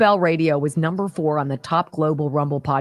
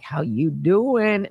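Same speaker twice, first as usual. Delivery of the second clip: slow flirty come-on; 2 semitones lower, much slower than usual. Pretend. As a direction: drawl it at the mirror. Flirting with mirror.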